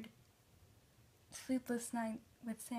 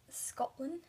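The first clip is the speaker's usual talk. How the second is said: put-on shitty Scottish accent; 4 semitones higher, 3 dB louder than usual. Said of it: "my shitty attempt at a Scotland".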